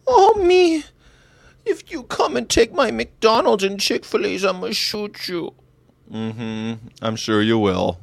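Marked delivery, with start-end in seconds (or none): 0.1-5.5 very high, tearful fake whine; mock crying. Carny guarding McDonald's and Chick-fil-A, mock crying. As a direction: sob out the threat, hammed up. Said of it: "they're always crying".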